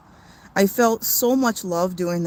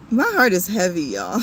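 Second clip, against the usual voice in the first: heavy-hearted, emotional. Real, not acted. Livestreamer telling viewers how sad the world is, heavy-hearted. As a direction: confide it while fighting back tears. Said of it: "I am really emotional".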